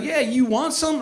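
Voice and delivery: high-pitched hillbilly voice; cartoon hillbilly. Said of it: "cartoon hillbilly".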